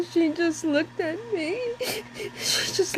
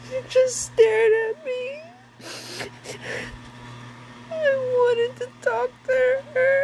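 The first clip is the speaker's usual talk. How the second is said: crying; 3 semitones higher than usual. Real, not acted. Insisting dream visit was real.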